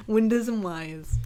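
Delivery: drawn-out windows and wires, "windas and wi-uhs"; imitated New York pronunciation. Amused echo of a possible store name, windows and wires New York style. Savours the accented words again.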